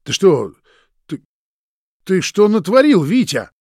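high, loud enraged yelling at a friend; furious shout. A narrator's reading. Roman pinning Vitya to the wall, furious shout. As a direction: yell it in his face, betrayed.

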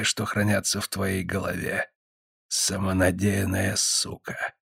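тихо и медленно, зловеще; еле слышный гипнотический голос; змеиный шёпот. Acted. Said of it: "змеиным шёпотом". (тихий медленный змеиный голос)

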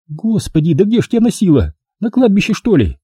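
high, quick exclamation; Milka, exasperated surprise. A narrator's reading. Milka aghast at where he has been, high and rushed. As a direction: throw up your hands at him.

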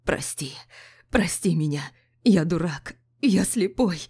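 breaking, desperate apology. Acted. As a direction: plead as the voice falls apart. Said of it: "голос его развалился на куски".

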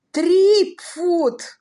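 high, loud anguished wail; wailing cry. A narrator's reading. Viscount breaks and howls, high loud wail. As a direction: howl it out in despair. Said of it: "возопил он".

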